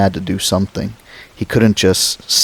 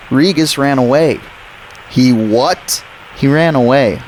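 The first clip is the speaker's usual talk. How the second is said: put-on anxious boy; 6 semitones higher than usual. Boy tells Doctor Grant over the radio, anxious. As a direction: report it in a rush of worry.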